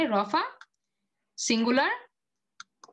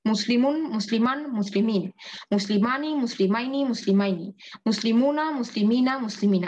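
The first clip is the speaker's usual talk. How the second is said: recited paradigm. Shown as a demonstration. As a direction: chant the word forms one by one. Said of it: "শব্দ দিয়ে শিখলাম". (শব্দরূপ আবৃত্তি করে বলা)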